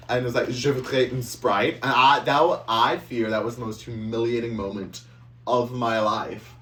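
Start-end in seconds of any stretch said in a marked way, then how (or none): 0.5-1.7 put-on French accent. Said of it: "I was in the accent".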